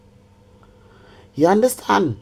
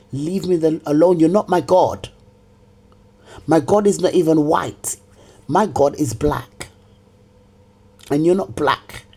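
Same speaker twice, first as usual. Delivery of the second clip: loud angry outburst; 4 dB louder than usual. Real, not acted. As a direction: shout it in fury. Furious rant at lord.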